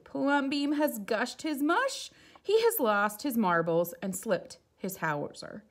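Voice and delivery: high, loud scandalised townsfolk; shocked neighbours tutting over him; gossiping neighbours. Acted. Neighbours scandalised by his house, high and loud.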